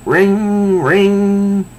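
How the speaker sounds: high, sustained ringing sound; imitated phone ring. Phone interrupts them in the car, high imitated ring. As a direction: sing out a high telephone ring.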